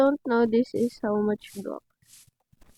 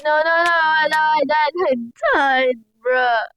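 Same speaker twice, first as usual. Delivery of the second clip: frustrated yelling; 4 semitones higher, 4 dB louder than usual. Real, not acted. Dies again in game.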